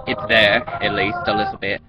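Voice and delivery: lightly put-on English accent. Shown as a demonstration. Vlogger showing what accents they can do, tentative English accent. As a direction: try a rough Cockney-ish English accent. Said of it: "do an English accent".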